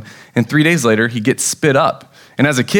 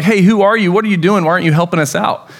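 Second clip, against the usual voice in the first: panicked sailors; 4 semitones higher, faster than usual. Retold or imitated. Panicked sailors confronting Jonah.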